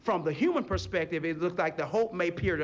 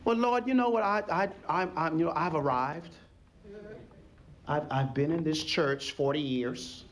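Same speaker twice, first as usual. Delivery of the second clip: smug churchgoer; 4 semitones lower than usual. Retold or imitated. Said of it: "That's how we talk".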